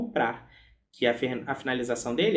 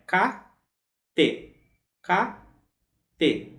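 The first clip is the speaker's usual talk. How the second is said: "kate" with a held stop before "te"; clear pause. Shown as a demonstration. Teacher demonstrates the pause in "kate" for students. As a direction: mark the small pause in "kate", ka, then te. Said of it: "a gente tem aquela pausa".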